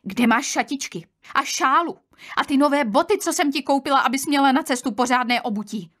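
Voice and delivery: exasperated scolding. Acted. Aunt asks the girl about lost clothes, exasperated scolding.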